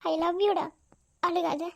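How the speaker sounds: low, soft declaration of love; tender comforting. Acted. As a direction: soothe a tearful lover softly. Comforting a crying lover.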